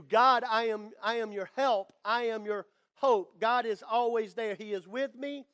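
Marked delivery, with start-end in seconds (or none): none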